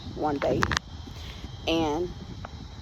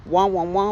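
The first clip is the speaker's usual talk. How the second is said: Peanuts teacher wah-wah; 5 dB louder than usual. Retold or imitated. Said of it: "like Peanuts, like the teacher".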